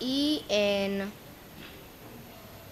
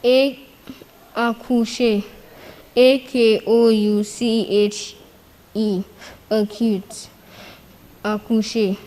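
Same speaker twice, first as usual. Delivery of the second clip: calls out each letter much louder, almost shouting; loud spelling; 10 dB louder than usual. Real, not acted. Speller shouting the spelling back to the host, loud and forceful. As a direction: belt the letters out to the room.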